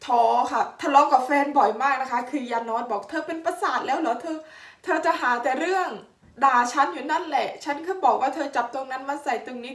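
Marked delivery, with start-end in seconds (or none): 3.1-9.7 higher-pitched imitation of a nagging partner; retold bickering, pitched up; mock scolding. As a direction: act out a partner's exasperated complaint. Retelling partner's scolding in a quarrel.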